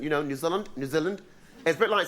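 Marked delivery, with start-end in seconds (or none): 0.2-0.7 New Zealand accent. Shown as a demonstration. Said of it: "I love the New Zealand accent". 0.8-1.2 New Zealand accent. Shown as a demonstration. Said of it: "I love the New Zealand accent".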